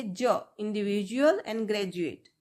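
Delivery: very slow, spelled-out teacher model; slow model reading of individual and graduate; slow demonstration. Shown as a demonstration. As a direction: drag out each word so students copy it. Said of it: "यहाँ पे हम डी को क्या sound करेंगे".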